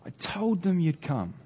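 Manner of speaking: high mock shout at contained volume; high, spaced-out calls of a trusting son; boy shouting. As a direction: imitate a boy calling out to his dad. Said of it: "just shouts".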